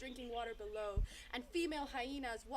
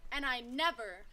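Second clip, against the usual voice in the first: loud, commanding banishment; jeer; 11 dB louder than usual. A narrator's reading. Crowd banishes the sheepdog, jeering loudly. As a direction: order him out forcefully, with pauses. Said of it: "heard another jeer from the crowd".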